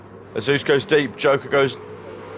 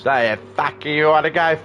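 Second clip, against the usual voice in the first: drill sergeant; 5 semitones higher than usual. Retold or imitated. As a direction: yell it like a shouting sergeant. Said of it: "Sort of speaks like a drill sergeant as well".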